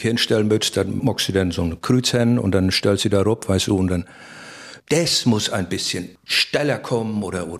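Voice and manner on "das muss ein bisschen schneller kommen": slow director's note; director's instruction. Retold or imitated. Film director instructing extras, slow and deliberate. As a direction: give the note slowly like a director on set. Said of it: "in welche Betonung du das".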